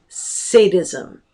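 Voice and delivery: "sadism" said with a long A, SAY-dizm; common mispronunciation. Shown as a demonstration. Lecturer defining malevolence, "sadism" said as SAY-dizm. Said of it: "mispronounce it as sadism".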